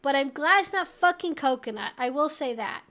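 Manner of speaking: normal talking voice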